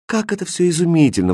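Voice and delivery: bright, admiring outcry; marveling at the jewels; delighted exclamation. Acted. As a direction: gasp in wonder at the treasures. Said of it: "воскликнула она".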